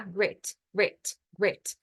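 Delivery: grit repeated with a short i; repeating grit. Shown as a demonstration. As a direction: drill grit three times. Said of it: "Repetição, repetição".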